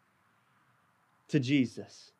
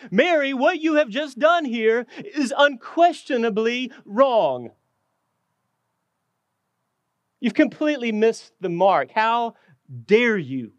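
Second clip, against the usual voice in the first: a mildly raised, scolding rebuke; indignant scolding; 2 semitones higher than usual. Acted. Disciples scolding Mary for wasting the oil, mild indignant rebuke. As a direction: scold her like she's wasted a treasure. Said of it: "is really the tone of this".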